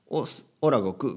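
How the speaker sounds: lightly imitated anime hero; a hint of cartoon hero voice; Goku. Teacher quoting an anime hero's introduction, light impression. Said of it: "ドラゴンボールの悟空の話し方とかね".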